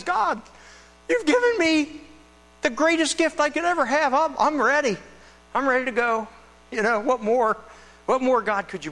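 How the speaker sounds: high, fervent prayer; grateful prayer. Retold or imitated. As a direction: pour out thanks to God. Simeon praying, ready to go.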